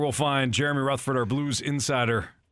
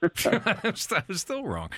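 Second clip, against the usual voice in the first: slow, laughing admission; 6 semitones higher, much slower than usual. Real, not acted. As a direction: laugh through it, drawn out. Laughing at own mistake.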